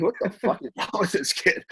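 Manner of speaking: mild mock disbelief; imagined bewildered onlooker. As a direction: lightly voice a puzzled spectator.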